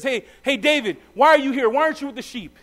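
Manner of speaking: hammed-up sibling scolding; mock angry brother. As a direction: play the irritated older brother. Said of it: "his brother gets mad at him".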